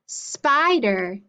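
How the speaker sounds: Spider with SPY held longer; stress on SPY. Shown as a demonstration. Teacher repeating spider carefully for the class, SPY stressed. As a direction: slowly lean on the SPY in Spider. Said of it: "listen carefully".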